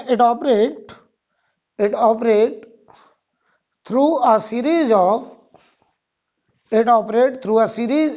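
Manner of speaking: slow, repeated dictation; dictating. Shown as a demonstration. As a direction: read each phrase out for copying. Dictating notes phrase by phrase.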